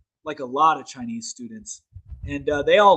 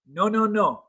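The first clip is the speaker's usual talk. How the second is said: higher-pitched acted refusal; retold refusal; 5 semitones higher than usual. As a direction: brush them off in a higher voice. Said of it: "the Chinese were like".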